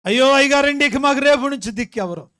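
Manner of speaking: high, loud wail falling away; imitated wailing. Wife lamenting to pastor that nobody will help, imitated wailing. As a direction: wail in mock despair, starting high. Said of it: "ఓ బగల బాగా ఏడుతుందంటండి".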